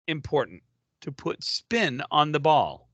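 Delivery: slowed down, spelling out each part; slow, deliberate repeat. Shown as a demonstration. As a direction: repeat the question slowly and patiently. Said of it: "answer the question, please".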